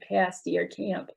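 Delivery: "pasty" and "camp" with a fronted, tense a; other Michigan vowel. Shown as a demonstration. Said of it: "other Michiganders will say".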